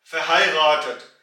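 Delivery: फहायगातत slow, with फै at the start; German word demo. Shown as a demonstration. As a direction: stretch out फहायगातत carefully. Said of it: "ए की आवाज मिल जाएगी". (फहायगातत का धीमा German उच्चारण)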